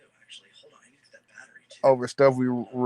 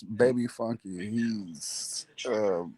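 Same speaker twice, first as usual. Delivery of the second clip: whisper; 3 semitones lower, 8 dB quieter, slower than usual. Real, not acted. Pointing out the baby nearby.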